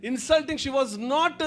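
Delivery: prayer. Real, not acted. Pastor leads closing prayer.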